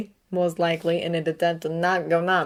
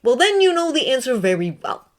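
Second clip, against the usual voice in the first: put-on a different, older voice, calm and knowing; Dumbledore voice; 7 semitones higher, 7 dB louder than usual. A narrator's reading. Headmaster to Severus, calm knowing voice. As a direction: speak as the old headmaster, measured.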